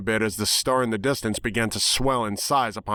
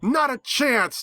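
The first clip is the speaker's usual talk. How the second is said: higher, spat back in defiance; defiant snarl; 13 semitones higher, slower than usual. A narrator's reading. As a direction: snap it back at the villain. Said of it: "Twilight snarled back".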